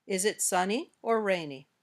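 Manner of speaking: up on "sunny", down on "rainy"; choice-question intonation. Shown as a demonstration. Teacher models an either-or question, rise then fall. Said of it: "goes up on the first choice".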